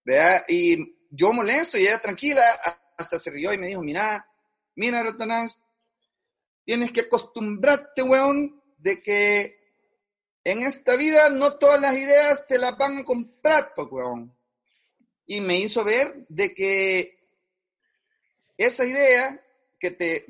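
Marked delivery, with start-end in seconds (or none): 3.8-14.3 calm advice in a put-on Chilean accent. Mónica Herrera calmly advising the angry young creative, in a Chilean accent. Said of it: "usar acento chileno".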